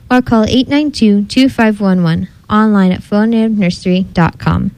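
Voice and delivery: even, scripted underwriting announcement; sponsor read. Real, not acted. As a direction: read out the sponsor credit steadily.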